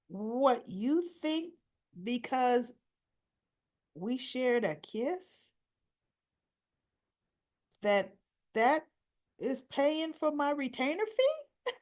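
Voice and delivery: drawn-out, disbelieving question rising in pitch; string out the absurd question, incredulous; mock incredulity. Lawyer to client about a kiss as payment, incredulous.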